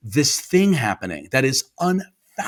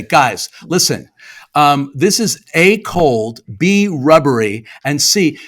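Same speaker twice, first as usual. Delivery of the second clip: slow, emphatic itemized complaint; firm mock complaint; 2 semitones higher, 6 dB louder, slower than usual. Diner complaining to the kitchen staff, slow and emphatic. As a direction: count off each fault slowly and firmly.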